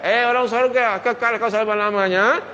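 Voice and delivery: very high, loud angel's decree; angel proclaiming. Acted. Angel decreeing eternity to the people of paradise, high and loud. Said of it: "Bercakap malaikat".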